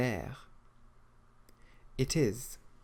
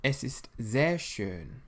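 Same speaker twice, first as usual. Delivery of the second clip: slow model answer; slower than usual. Shown as a demonstration. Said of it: "how would you say in German".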